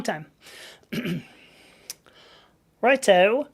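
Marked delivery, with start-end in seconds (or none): 2.8-3.5 light stab at Cockney; Cockney accent. Acted. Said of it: "Cockney accent".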